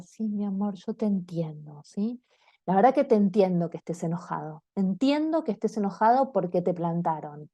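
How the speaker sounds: put-on calm the angry kid down gently; calm soothing parent. Shown as a demonstration. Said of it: "pero no voy a hablar".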